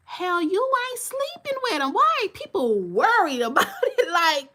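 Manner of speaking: high, loud and laughing through the words; laughing disbelief. Real, not acted. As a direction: crack up in disbelief while saying it. Laughing at people invested in gossip.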